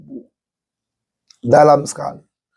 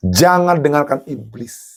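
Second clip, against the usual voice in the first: ordinary talk, nothing marked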